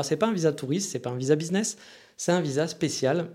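slightly hoarse, throat needs clearing; talking through a frog in the throat. Real, not acted. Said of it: "J'ai un chat dans la gorge aujourd'hui".

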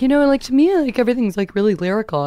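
a hint of an artsy actor holding forth; pompous actor talk. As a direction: send up a self-important actor musing on accents. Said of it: "really pompous conversation".

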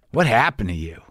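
concerned, blunt question at normal pace; retold confronting question. Woman confronts him, then repeats it.

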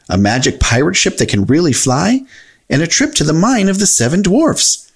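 lightly voiced cheerful cartoon character; lightly voiced Mickey Mouse. Mickey describes Disneyland.

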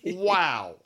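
high, slow, hammed-up wonder; mock amazement. Host marvelling at the Patreon price, mock amazed. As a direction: marvel at such a bargain.

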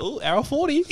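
high-pitched teasing "ooh"; mock excited viewer. Coworker teasing his mate watching the podcast, mock excited. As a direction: tease with a high, put-on voice.

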